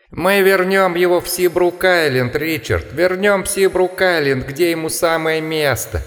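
sing-song howl, mocking; laughing, howling voice. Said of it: "смеющийся и подвывающий". (смеющийся, подвывающий голос чудовища)

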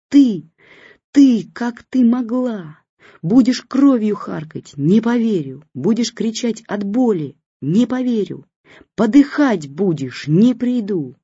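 high, slow, broken furious curses; hysterical. A narrator's reading. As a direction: spit it out hysterically. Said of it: "кричала истерично Лиза".

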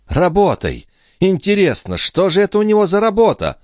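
high, sceptical sneer; high, sarcastic young woman; grumbling scorn. A narrator's reading. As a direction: scoff at the old man's work. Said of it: "проворчала Лоренцо".

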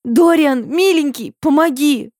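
high-pitched, pleading cry; shouting for help. A narrator's reading. Heroine begging Dorian to save her, crying out. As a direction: call out high and beseechingly. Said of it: "Я кричу".

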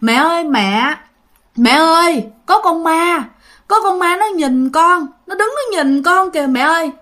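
imitating a scared little child calling for mommy; scared crying child. Child wakes up, sees a ghost, cries to mother, mildly frightened. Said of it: "nó khóc, nó nói rằng á là".

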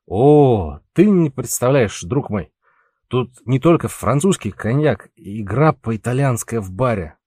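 words tangled by too much cognac; drunken slur. Acted. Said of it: "заплетающимся языком вещал ему Пауль".

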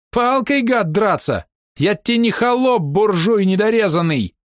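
put-on a young soldier's thin offended cry; thin offended shout. A narrator's reading. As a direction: squeal it out, wounded. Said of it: "закричал тонким обиженным голосом".

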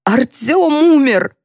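drawn-out, high desperate yell; grabbing her jacket and yelling in grief. Acted. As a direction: hurl the news at her, slowly. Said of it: "схватила за жакет и заорала".

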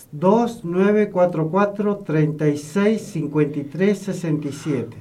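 phone number read in brisk groups; number given a little hurriedly; a bit quick. Real, not acted. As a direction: read the number straight through, short pauses. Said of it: "lo dije medio rápido".

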